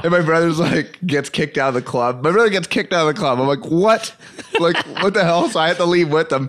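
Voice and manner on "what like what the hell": high-pitched, disbelieving "what"; retold shocked question; incredulous. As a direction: act out being stunned by the news. Retells own disbelief at brother's ejection.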